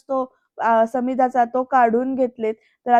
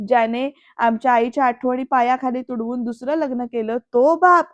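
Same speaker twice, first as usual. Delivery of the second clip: retold shouting; 3 dB louder than usual. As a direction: build up to an indignant cry on the last words. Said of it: "असं सगळं ओरडून म्हणतो".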